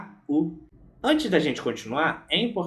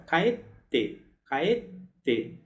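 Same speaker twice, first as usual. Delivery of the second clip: "kaete" with a held stop before "te"; marked pause. Shown as a demonstration. Teacher stresses the pause in "kaete" so students remember. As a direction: mark the pause clearly in "kaete". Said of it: "marcando bem a posição dessa pausa".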